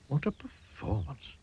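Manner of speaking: slowly comment on all the fuss; unimpressed worm. A narrator's reading. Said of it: "commented the worm".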